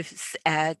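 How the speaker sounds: normal talking voice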